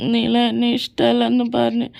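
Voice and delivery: hammed-up sobbing between words; mock-cry like a rejected suitor; whimpering. Rejected boy sulking alone in a corner, whimpering. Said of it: "അവനാ മൂലക്കിരുന്ന് മോങ്ങുന്നുണ്ട്".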